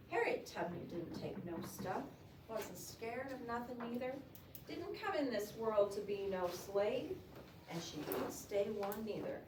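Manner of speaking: firm, measured no-nonsense reading. Shown as a demonstration. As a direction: read it as someone taking nothing from anybody. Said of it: "no nonsense".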